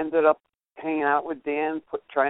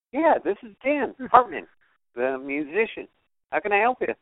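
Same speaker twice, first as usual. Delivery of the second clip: lightly voiced high little voice; a hint of a small, high phone voice; Dan Hartman; 6 semitones higher, faster than usual. Musician confirming who he is to a caller, lightly imitated little voice. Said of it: "this little voice goes".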